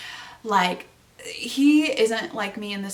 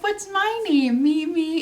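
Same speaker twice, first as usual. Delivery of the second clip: put-on high, sing-song little kid asking; mimicking a toddler's high chant; 8 semitones higher, 3 dB louder than usual. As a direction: squeak it like a three-year-old. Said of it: "she's like".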